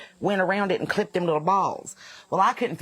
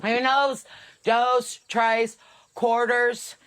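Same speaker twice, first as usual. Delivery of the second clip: higher, proud kid counting in fake Spanish; imitating a child; 5 semitones higher, 3 dB louder, much slower than usual. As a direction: rattle off the words like a boastful little boy. Voicing nephew's fake Spanish.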